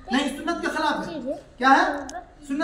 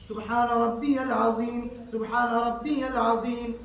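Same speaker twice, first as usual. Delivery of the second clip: prayer recitation. Shown as a demonstration. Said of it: "तीन मरतबा".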